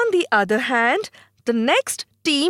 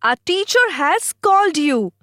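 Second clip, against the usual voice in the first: firm message; 6 semitones higher than usual. Acted. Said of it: "She tells them".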